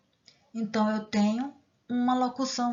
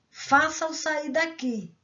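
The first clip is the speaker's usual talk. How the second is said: giving an order; 5 semitones higher, slower than usual. Shown as a demonstration. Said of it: "Eu tô dando uma ordem aqui".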